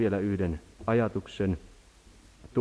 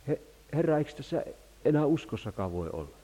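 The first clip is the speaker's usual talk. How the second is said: pleading prayer; 5 semitones higher, 4 dB louder, faster than usual. Retold or imitated. Voices a desperate prayer to God.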